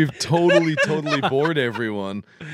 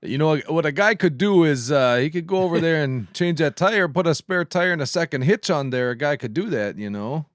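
put-on Iron Range local; Iron Range accent; 3 semitones higher than usual. Shown as a demonstration. Giving example phrases in an Iron Range accent. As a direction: play it as a northern Minnesota Iron Range guy. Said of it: "Phrases like".

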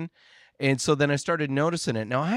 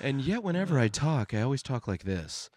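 radio DJ voice; 4 dB quieter than usual. Pretend. Showing off how one always talks, as radio DJ. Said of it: "like you wanna be a radio D J".

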